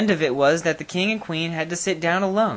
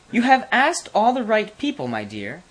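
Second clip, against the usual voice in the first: king's voice; 8 semitones higher, 4 dB louder than usual. A narrator's reading. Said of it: "said the king".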